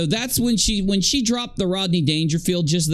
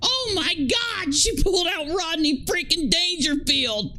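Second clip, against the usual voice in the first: excited; 11 semitones higher than usual. Real, not acted. Cracking up at roast line.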